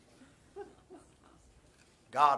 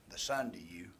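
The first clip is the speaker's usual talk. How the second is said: whisper; 6 semitones lower, 7 dB quieter than usual. Acted. Intimate aside to congregation.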